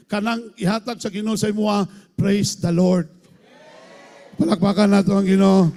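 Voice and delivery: loud, ringing preacher's call; fiery pulpit exhortation; preaching at full force. Acted. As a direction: rouse the congregation to praise.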